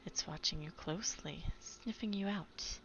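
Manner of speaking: hushed grandma voice sinking to a whisper; lightly voiced gentle old lady; soft old lady voice. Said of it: "in her soft, smooth voice".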